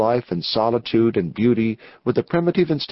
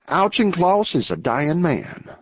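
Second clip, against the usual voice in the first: positive; 4 semitones higher than usual. Acted. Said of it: "with such positiveness".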